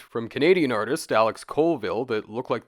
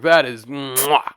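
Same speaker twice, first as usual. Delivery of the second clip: chef's kiss; 7 dB louder, slower than usual. Real, not acted.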